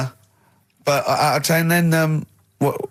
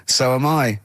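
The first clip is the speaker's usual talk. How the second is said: deadpan text reading; slower than usual. Retold or imitated. Reads own text reply aloud.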